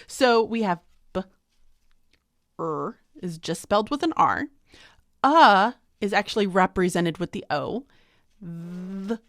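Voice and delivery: "b", "er", "uh", "th" each said as a lone sound; graphemes sounded out. Shown as a demonstration. Teacher maps sounds to letters for students. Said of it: "each of the five graphemes".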